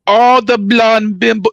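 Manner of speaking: a lightly put-on bimbo voice, a little slow; a hint of a ditzy valley girl; ditzy blonde voice. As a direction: drawl it like a stereotyped blonde. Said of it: "talks like that".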